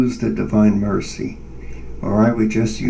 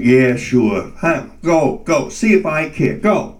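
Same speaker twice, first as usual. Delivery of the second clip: sarcastic dismissal; 2 semitones higher than usual. Retold or imitated. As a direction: wave him off scornfully. Inner voice sneering back.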